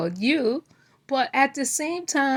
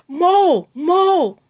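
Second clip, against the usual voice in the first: higher, louder mock call across the gate; imitating a yell; 6 semitones higher, 6 dB louder than usual. Mimicking D calling her uncle over the fence, mock yelling. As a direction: call out the name like she did. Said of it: "screaming out his".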